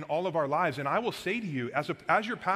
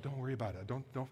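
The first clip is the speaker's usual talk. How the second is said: brushing it off; 4 semitones lower, 8 dB quieter, faster than usual. Retold or imitated. Brushing off friends about the gas.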